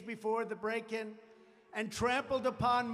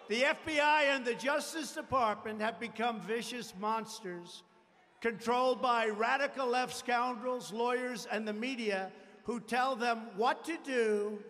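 rally speech. Acted. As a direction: rouse the crowd against enemies.

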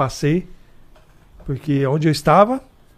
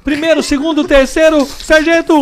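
radio code recital; 10 semitones higher, 6 dB louder, slower than usual. Retold or imitated. Rattling off radio alphabet.

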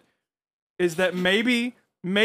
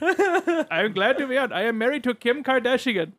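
put-on higher-pitched caricatured Indian accent; mock Indian accent; 5 semitones higher than usual. Pitching a fake-rapper bit for the show, mock Indian accent. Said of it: "Indian man to pretend to be Kanye".

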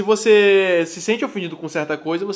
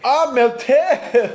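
drawn-out gasp; 6 semitones higher, 4 dB louder, much slower than usual. Real, not acted. Reacting to apology, drawn out.

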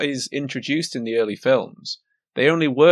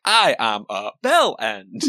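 lower, slow, odd put-on voice for the fake edit; mock edited voice; 5 semitones lower, slower than usual. Friend imagines Craig's edited line, in a mock robotic voice. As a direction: drone it like a spliced-together clip. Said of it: "the edit for Craig this episode is like".

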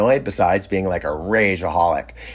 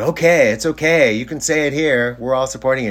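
higher-pitched, soothing encouragement; reassuring group; 4 semitones higher than usual. Retold or imitated. Group members encourage the upset cook to speak, reassuring. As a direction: coax him gently in a raised pitch.

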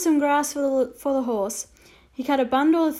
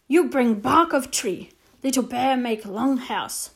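terse and grave; Little Bear voice; slower than usual. Acted. Little Bear to the boy, slow and terse.

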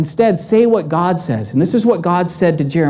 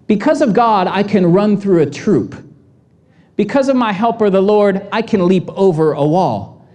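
confident declaration. Retold or imitated. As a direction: proclaim it like a warrior. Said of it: "David had a different kind of voice".

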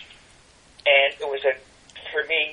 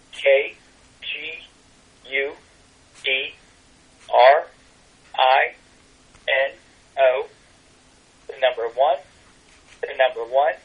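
slow, one letter at a time with pauses; spelling slowly. Real, not acted. Guest gives listeners the tarot email address, spelling slowly. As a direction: dictate it piece by piece, slowly. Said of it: "say it slowly".

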